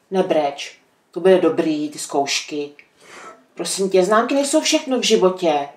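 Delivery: low, gentle motherly comfort; calm her down, kindly; reassuring. Real, not acted. Mother reassures daughter about exams. (konejšivě, uklidňujícím hlasem)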